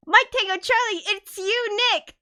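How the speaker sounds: high, loud delighted cry of recognition; excited greeting. Real, not acted. Greeting her friend Nick in chat, delighted. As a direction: shout out a friend's name with glee.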